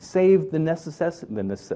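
slow, stumbling stutter, tripping over words. Speaker working through treatment costs per patient: stuttering. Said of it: "I'm stuttering".

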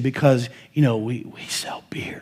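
hushed whisper under the breath. Recalling what a man said to him at an IHOP in Midland, retelling a whisper. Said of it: "He's like whispering".

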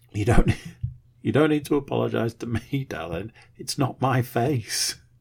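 play-acted voice holding back tears. Father retells answering his apologizing child, retelling holding back tears. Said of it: "trying not to cry going".

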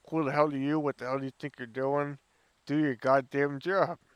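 ordinary talk, nothing marked

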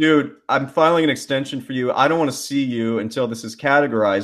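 ordinary delivery

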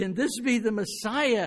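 eager, thrilled, wondering, already-believing tone. Reading the same Bible line the right way: excited, already believing. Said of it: "she was so excited that she was saying".

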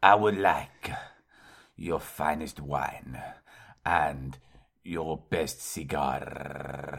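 very low, soft Latin American accent. On the show, performing a put-on voice bit: Latin American accent. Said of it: "That's more Latin. American".

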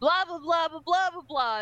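put-on loud male voice. Mocking how a man in a scene talks to a woman in his ordinary voice; imitating a man's loud voice. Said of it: "in his, like, normal voice".

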